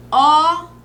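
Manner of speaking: "Óculos" split as ó-cu-los; syllable by syllable. Shown as a demonstration. Teacher writing "Óculos" for the class, sounded out. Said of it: "Então, vamos lá".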